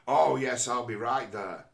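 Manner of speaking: loud keen yes; mock eager acceptance. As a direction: snap up the invite at once. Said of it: "But that person".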